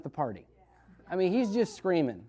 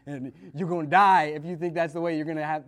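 lecturing Jesus; 3 semitones lower, 5 dB louder than usual. Retold or imitated. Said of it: "Jesus is basically saying".

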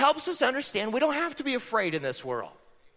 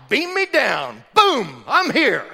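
playful beam-in; 3 semitones higher, 7 dB louder, slower than usual. Retold or imitated. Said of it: "Jesus is like".

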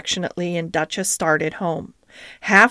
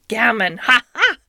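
mild mock shout; 3 semitones higher than usual. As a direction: cackle at the peeping cat. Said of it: "he shouted".

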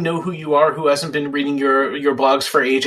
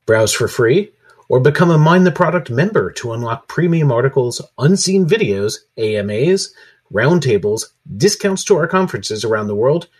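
lightly announced membership plug; scripted promo read; 6 semitones lower than usual. Acted. Host pitches membership perks to listeners, promo read. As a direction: read out the list of perks, dropping at the close.

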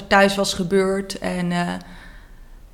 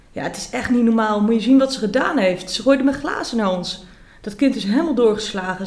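read-aloud shout; 3 semitones higher than usual. Acted. Mother yelling to the visiting parents about her child, mock yell. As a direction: raise the voice like a mother complaining in outrage. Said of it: "schreeuwt mama".

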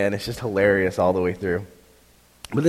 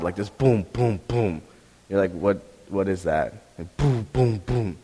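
imitated thuds; 3 semitones lower, 3 dB quieter than usual. Shown as a demonstration. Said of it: "start hearing kind of like a thud".

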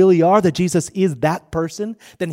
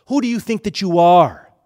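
louder, pressing each word; forceful challenge; 5 dB louder than usual. Shown as a demonstration. Preacher to crowd, a louder, forceful challenge. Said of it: "Another way to translate that is what?".

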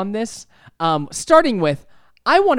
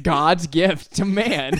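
usual speaking voice

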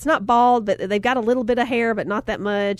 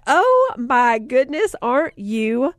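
delighted praise; 3 dB louder than usual. Retold or imitated. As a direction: gush over the little artist. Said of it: "And I was like".

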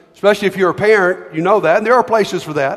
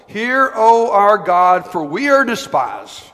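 angry prayer reading. Acted. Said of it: "this is not a pretty prayer".

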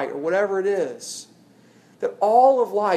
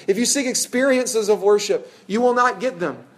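louder and higher, pressing the warning; emphatic preaching; 6 semitones higher, 5 dB louder than usual. Acted. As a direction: preach it up with force. Climax of quoted Carson passage.

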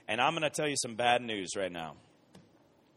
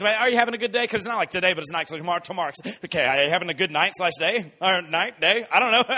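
confused sleepy roommate; 4 semitones higher, 8 dB louder than usual. Retold or imitated. Confused roommate rambling half-awake.

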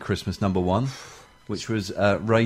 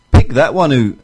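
Andy Gray; 3 semitones higher, 9 dB louder than usual. Shown as a demonstration. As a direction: put on a punchy Scottish football-commentary voice. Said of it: "can you guess who this is?".

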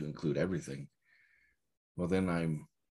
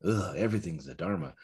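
mild exasperated groan on ugh, flat and weary; eye-rolling. Shown as a demonstration. Teacher showing the scornful version of the phrase, mildly disgusted. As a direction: say it as if rolling your eyes, tired of it. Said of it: "if I say it like that".

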